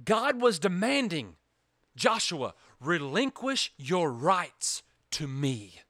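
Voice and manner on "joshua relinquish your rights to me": slow, low, hushed demand; solemn divine demand. Acted. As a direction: lay down the demand slowly and gravely. God demanding Joshua.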